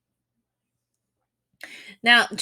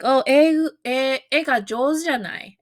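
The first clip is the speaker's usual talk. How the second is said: higher, gushing opener with stammered e; mock compliment; 5 semitones higher than usual. Shown as a demonstration. Someone compliments a learner's drawing, gushing mock praise. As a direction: tease them with faint praise. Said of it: "If someone was like".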